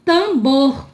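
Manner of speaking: TAMBOR ending on a clear R; sounded final R. Shown as a demonstration. Teacher pointing out the final R, R clearly sounded. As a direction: say "Tambor" as "tam-BOR". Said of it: "Olha o R aqui".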